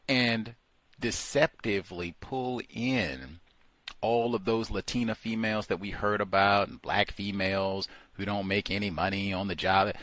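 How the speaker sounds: normal talking voice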